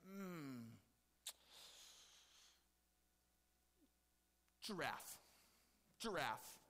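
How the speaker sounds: a thoughtful hum, then trying out the name; lightly voiced Adam, pondering what to call it; Adam mulling over the first animal, unhurried; musing Adam. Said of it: "he's like".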